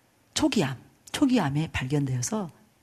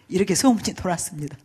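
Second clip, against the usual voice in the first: ordinary delivery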